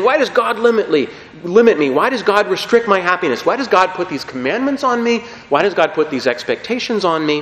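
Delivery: voicing a resentful believer; mock indignant questions at God; lightly acted grumbling why-me tone; whiny complaint. Mimicking rebellious complaint to God.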